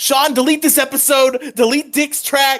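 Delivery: high-pitched, demanding ranting tone. Retelling how Maddox would react when mocked: Maddox rant voice. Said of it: "he'd be like".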